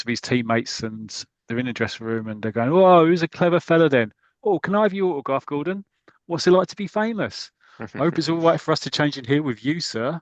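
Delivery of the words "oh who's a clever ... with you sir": high, sing-song mickey-taking; mock teasing. Teammates tease the new international, high and mocking. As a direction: rib him like cheeky teammates.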